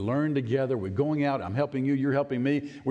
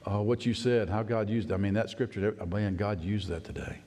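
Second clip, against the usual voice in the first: 1 retold tearful words; 6 semitones lower than usual. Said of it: "he said, in tears".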